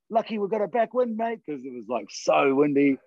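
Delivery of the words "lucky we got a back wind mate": cheery call across road. Retold or imitated. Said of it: "I was like".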